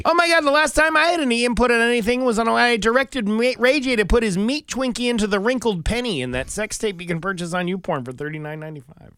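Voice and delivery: high, put-on Valley girl voice; gossipy celebrity voice; Kim Kardashian impression. Mock Kim Kardashian quote.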